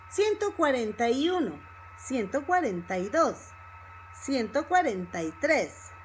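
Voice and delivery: words run together in one breath group; fast connected speech. Shown as a demonstration. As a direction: say the number quickly as one linked phrase. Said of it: "if you speak fast".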